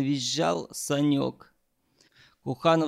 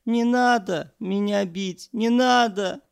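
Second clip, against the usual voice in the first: high, louder panicked begging; frightened plea; 7 semitones higher, 5 dB louder than usual. A narrator's reading. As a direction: beg to stop the blows. Begs while being slapped.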